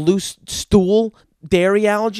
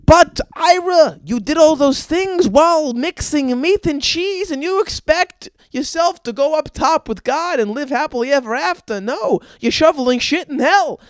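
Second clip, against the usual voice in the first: put-on Jewish accent; 9 semitones higher, 5 dB louder than usual. God condemning Ira to hell, scornful Jewish accent. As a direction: pass sentence in a hammed-up Jewish accent. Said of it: "that was a spot-on Jewish accent".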